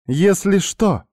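high, loud snap on «Если что!»; snapped mocking echo. A narrator's reading. Woman mocking his offer in a high, loud snap. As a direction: throw «Если что!» back at him sharply. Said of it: "огрызнулась".

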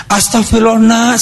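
dismayed exclamation. Retold or imitated. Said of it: "saya bilang".

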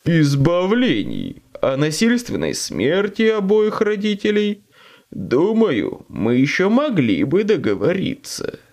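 scheming grating demon; devil. Acted. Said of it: "Голос демона отвратительно скрипел".

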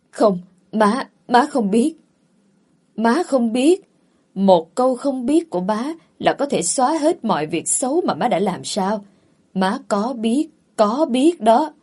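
a son fighting back sobs as he accuses; choked-up crying. Acted. Son confronts his mother, voice breaking with tears. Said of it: "Cậu nấc nghẹn, cậu khóc".

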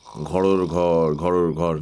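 slow, low snore sound; imitated snoring. A narrator's reading. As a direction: drag out the snore noise.

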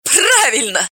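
high shriek of triumph. A narrator's reading. Polina shrieking at the rich man. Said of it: "взвизгнула Полина".

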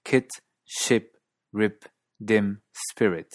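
KIT, SHIP, RIP, DIM, SPIRIT with standard US-British lax 'ih'; standard US-British accent. Shown as a demonstration. Teacher repeating the word series, standard US-British relaxed I. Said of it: "En Estados Unidos y en inglés británico estándar".

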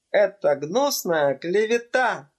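high indignant cry; girl defending her old nurse; indignant outburst. Acted. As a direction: fling back the accusation. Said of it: "воскликнула Вероника со сверкающими от гнева глазами".

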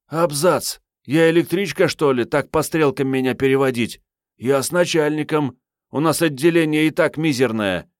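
put-on indignant young woman. Agent Marietta protests to her boss, indignant and high. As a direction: protest being shunted aside.

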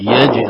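"يجي" with j released in a bouncing echo; jīm qalqala. Shown as a demonstration. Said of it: "القلقلة في الجيم". («يجي» بقلقلة الجيم)

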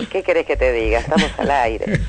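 hoarse, raspy voice; smoker's rasp. Real, not acted. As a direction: speak through a rough, worn throat. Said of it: "tenés típica voz de fumadora".

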